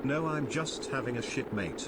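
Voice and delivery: flat text-to-speech voice; synthetic robotic reading. Real, not acted. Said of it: "a robotic voice saying it out loud".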